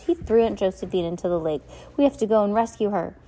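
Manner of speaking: urgent cry to be believed. Acted. Violet urging Mister Poe to save her aunt, loud and fast. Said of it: "Violet shouted".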